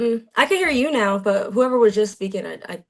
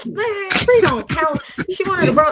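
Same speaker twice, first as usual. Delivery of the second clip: higher, slow mock dude voice; high school guy voice; 10 semitones higher than usual. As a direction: play the dismissive classmate, drawn out. Classmates voiced in high school story.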